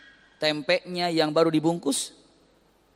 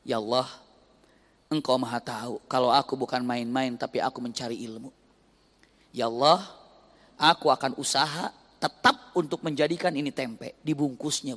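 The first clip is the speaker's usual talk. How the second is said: earnest prayer; 4 semitones lower than usual. Retold or imitated. Wife's prayer.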